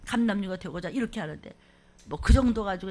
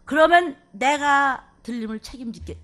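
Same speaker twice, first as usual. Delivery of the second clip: God's promise; 6 dB louder than usual. Acted. Preacher voicing God's promise.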